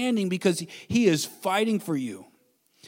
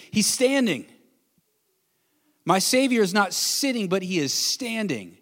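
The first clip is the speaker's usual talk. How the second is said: excited proclamation; 3 semitones higher than usual. Acted. Voicing Stephen's vision, raised.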